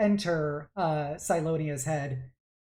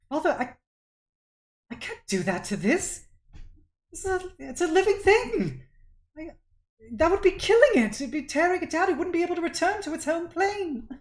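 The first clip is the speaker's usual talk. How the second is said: high, loud, distressed protest; horrified child; 13 semitones higher, 7 dB louder, faster than usual. Acted. Daughter refusing to kill a living thing, horrified. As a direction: plead in horror with your father. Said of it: "he kind of looks horrified at that".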